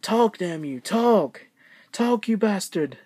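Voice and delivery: imitating a British mom yelling; mock British yell at a doll; British accent. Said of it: "in that British voice".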